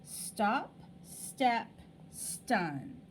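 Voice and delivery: "Stop, step, stun" set apart, each with a clear st; words to echo. Shown as a demonstration. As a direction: list the words singly, st distinct at the start. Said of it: "what letters are making those sounds".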